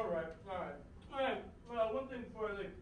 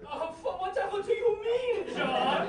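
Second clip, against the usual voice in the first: hammed-up snooty gentleman, higher; posh gentleman voice; 6 semitones higher, 5 dB louder than usual. Pompous guest answers the host in a hammed-up posh voice. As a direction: play the refined snob, a little lofty. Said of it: "You don't talk like that either".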